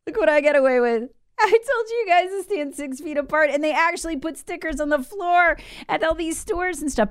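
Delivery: high, sneering mock voice; a nasal-free taunting impression of Fauci. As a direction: gloat like a smug official. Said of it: "He's mocking us".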